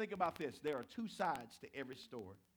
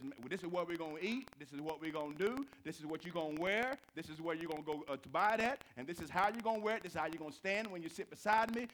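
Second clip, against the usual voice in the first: bossy bully; 6 dB louder than usual. Retold or imitated. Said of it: "Aggressive bullies are like".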